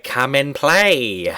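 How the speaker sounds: slow, drawn-out creepy call; luring creepy invite. Retold or imitated. Friend mimics the film's creepy lure, slow and coaxing. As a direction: lure them in slowly. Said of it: "the friend is just like".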